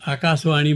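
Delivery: आकाशवाणी with a plain s, "akaasvani". Shown as a demonstration. Poet quoting those who got thrown out, आकाशवाणी said with s. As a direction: replace the sh of आकाशवाणी with s. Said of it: "आकाशवाणी कोई नहीं बोलता".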